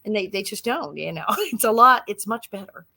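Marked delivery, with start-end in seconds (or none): 2.1-2.9 whispered aside; a sly whispered punchline. Real, not acted. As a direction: drop to a secret whisper. Confiding aside.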